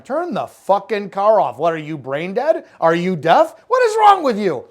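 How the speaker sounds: exasperated command rising to a loud, high shout; barked order building to a yell; blunt command presence. Shown as a demonstration. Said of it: "you always deliver it in a tone that puts them on their heels".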